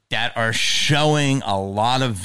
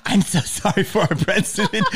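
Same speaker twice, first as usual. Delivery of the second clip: high, whiny mock apology; mock apologetic American; 8 semitones higher than usual. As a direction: mimic a sorry tourist, whining high. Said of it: "do you walk around and go".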